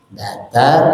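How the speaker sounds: "datar" held on an even note; level tone. Shown as a demonstration. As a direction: keep "datar" steady and drawn out. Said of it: "yang kedua datar".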